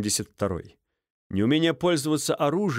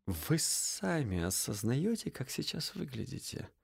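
contemptuous hush; 11 dB quieter than usual. A narrator's reading. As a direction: sneer it quietly. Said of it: "презрительно скривившись".

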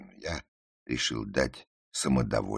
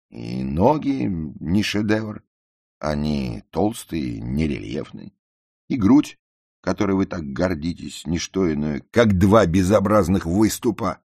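loud, raised-pitch tirade; carried away; 8 semitones higher, 11 dB louder than usual. A narrator's reading. Narrator picks apart the girl's looks, carried away. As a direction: pile on the criticism with mounting vehemence. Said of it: "разошёлся я".

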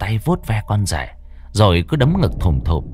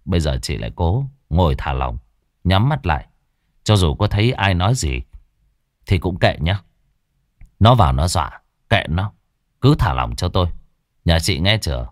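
lower, steady voice of a confident exorcist; calm master; 4 semitones lower than usual. Acted. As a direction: guide her to relax like a seasoned shaman. Master instructs Ngọc calmly. (thầy pháp trấn an, giọng trầm điềm tĩnh)

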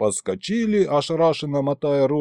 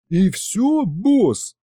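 high-pitched amazed question; astonished; 7 semitones higher, 3 dB louder, much slower than usual. A narrator's reading. Demon learns his only fault, astonished. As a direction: ask it in disbelief, voice shooting up. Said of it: "поразился он".

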